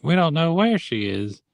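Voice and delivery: high-pitched imitated protest; Master Cherry. Master Cherry answering Pinocchio, high mock protest. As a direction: push the pitch up, acting out the objection. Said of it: "Master Cherry's like".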